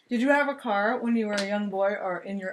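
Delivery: talking while chewing a cookie; mouth full. Real, not acted. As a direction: ask it through a mouthful. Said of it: "while I'm chewing".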